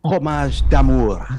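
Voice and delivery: put-on French accent. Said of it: "my French accent?".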